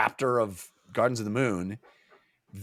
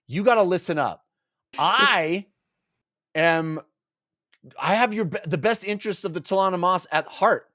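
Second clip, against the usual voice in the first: mildly heated, insistent pleading; exasperated appeal; 3 semitones higher than usual. Retold or imitated. Olar Ithil urging a stubborn Tool to listen, exasperated. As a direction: press your case, pitch lifting on key words.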